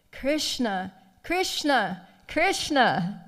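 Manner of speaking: name called three times, each swooping down; mounting intensity. Retold or imitated. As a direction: call the beloved's name with growing rapture. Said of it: "reciprocating with his intensity".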